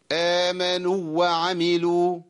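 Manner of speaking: "وعملوا" with the long waw cut short and merged; "آمنوا وعملوا" with the long u shortened into the next waw; wrong merged waw. Shown as a demonstration. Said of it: "ده خطأ".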